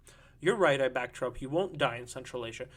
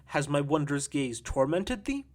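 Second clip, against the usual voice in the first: slow, measured verse recital; reciting poetry. Acted. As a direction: declaim it slowly as poetry. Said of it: "pinching me and reciting poetry".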